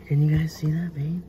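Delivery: hushed question; whisper. Real, not acted. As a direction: whisper it to the viewers. Whispers to viewers.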